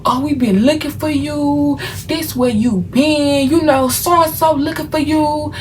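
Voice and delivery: nosy cousin. Retold or imitated. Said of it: "She was like".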